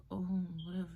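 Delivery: soft unvoiced dismissive mumble; mumbled whatever. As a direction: toss it off under your breath, barely voiced. Retold boyfriend dismissive reply.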